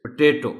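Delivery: potato as "puh-TAY-to"; potato, reduced "puh" then stressed TAY; correct pronunciation. Shown as a demonstration. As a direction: model potato with a short first syllable. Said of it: "So the word is".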